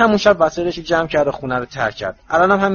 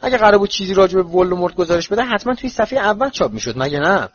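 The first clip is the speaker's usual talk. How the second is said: defensive; 4 semitones higher, 3 dB louder than usual. Acted. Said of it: "هری برای دفاع از خودش گفت".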